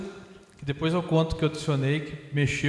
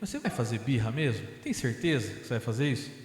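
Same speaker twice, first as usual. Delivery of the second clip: firm challenging tone; 6 semitones lower, 5 dB quieter than usual. Retold or imitated. Medium quietly challenging the spirit's threat to scream, firm. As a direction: lower and softer, a pointed "are you sure?". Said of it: "mas eu falei num tom assim de".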